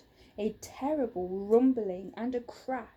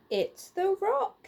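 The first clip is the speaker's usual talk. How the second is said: high, loud call; shout; 9 semitones higher, 5 dB louder than usual. Acted. Husband shouting to his wife about the rock. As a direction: call it out across the house. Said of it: "he shouted to Missus Quest".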